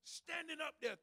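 ordinary talk

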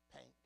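pink with a clear short i; plain pink. Shown as a demonstration. Preacher giving the standard form, plain pink. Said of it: "pank, not pink".

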